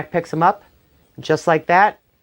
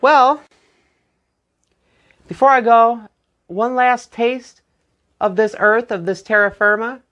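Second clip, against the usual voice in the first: wheedling Jack; 6 semitones higher than usual. Acted. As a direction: stretch the plea out sweetly. Jack pleads for a last taste.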